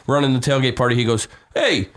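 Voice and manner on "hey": put-on high-pitched yell of a New York old-timer; old Italian New York guy. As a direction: imitate an irate old New Yorker shooing someone off. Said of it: "this old Italian New York guy".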